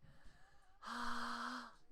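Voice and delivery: long airy sigh; breathy sigh. Shown as a demonstration. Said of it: "in the breathy voice".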